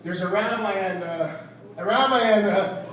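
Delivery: stuck restarting, with filler uhs; forgetful joke-teller. Acted. Comic losing the joke onstage, halting and forgetful. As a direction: stall and grope for the next word. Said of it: "having a recall issue".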